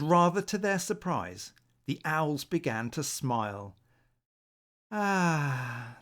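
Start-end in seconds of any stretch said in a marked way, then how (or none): 4.9-6.0 dreamy sigh. Acted. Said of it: "they breathed".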